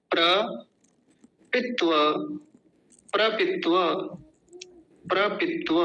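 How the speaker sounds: प्रपित्व as pra-pit-va, pauses left for repeating; say-along pronunciation. Shown as a demonstration. Teacher leading repetition, syllabic pronunciation. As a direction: say प्रपित्व in clear pieces, va full. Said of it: "मेरे साथ बोलिए".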